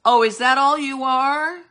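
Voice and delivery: indignant preacher's no; scoffing retort. Real, not acted. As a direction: shoot the idea down with scorn.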